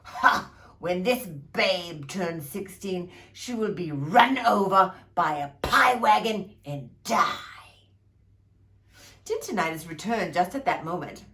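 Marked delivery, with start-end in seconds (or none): 0.0-7.3 barked curse. Acted.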